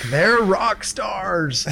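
slow stoner bro voice; Snake O G voice. Retold or imitated. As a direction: drag it out like a stoner. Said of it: "you sounded just like him right there".

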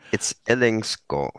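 Ellingskål with the double A as a long "aw"; Danish pronunciation. Shown as a demonstration. Correcting the host on a guest's surname, Danish pronunciation. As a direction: say Ellingskål the Danish way, ending in "skaw". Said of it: "old Danish spelling".

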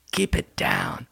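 hushed voice, trying not to wake someone; whispering on the phone. Real, not acted. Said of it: "why are you whispering".

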